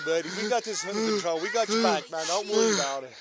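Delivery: soft, low reassurance; calming. Real, not acted. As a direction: settle him down gently. Officer calming a struggling man.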